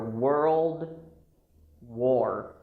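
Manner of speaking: put-on "world war" as WUR-old, pause, WOR; careful model. Shown as a demonstration. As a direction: spell out "world war" slowly by sound. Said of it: "just remember".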